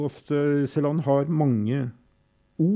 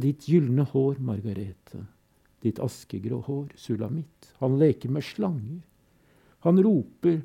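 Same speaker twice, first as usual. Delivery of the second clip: measured, grave recital with refrains; solemn poem reading. Acted. Reading Todesfuge aloud to listeners, grave and measured. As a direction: let the fugue's repetitions toll.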